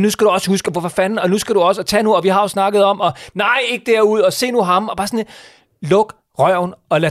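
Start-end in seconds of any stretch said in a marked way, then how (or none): 0.0-4.9 mock coaching parent, higher and louder, rising; imitating sideline parent. Mocking parents who coach from the sideline, pushy and higher. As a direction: ham up a pushy parent calling instructions from the sideline. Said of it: "Lad være med at guide dem til".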